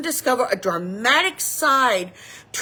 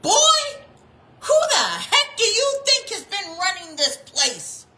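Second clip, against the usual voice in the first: sassy rebuke; 8 semitones higher, 4 dB louder than usual. Retold or imitated. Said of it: "She looks at a certain person and says".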